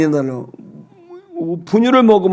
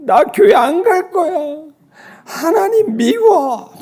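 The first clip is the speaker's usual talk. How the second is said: put-on wailing child; 13 semitones higher, slower than usual. Daughter wails against her illness.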